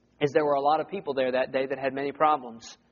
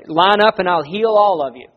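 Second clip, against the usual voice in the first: loud, lightly acted healer's pitch; mock healer's call; 8 dB louder than usual. Preacher imitating healers who summon a crowd, loudly.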